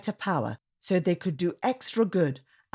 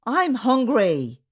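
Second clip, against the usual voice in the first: slow, louder hungry cry, a touch of whine; 7 semitones higher, 6 dB louder, slower than usual. A narrator's reading. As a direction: drag it out like a hungry boy. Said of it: "cried out Zaid".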